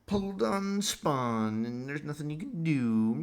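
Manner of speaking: mock doomsayer. Voicing the black pill's message, slow mocking drone. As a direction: drone it like a smug doom prophet.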